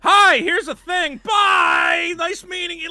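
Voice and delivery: a hint of a flustered Jedi dropping by; mock Obi-Wan greeting. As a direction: toss it off like a hurried visitor. Voicing Obi-Wan's brief greeting.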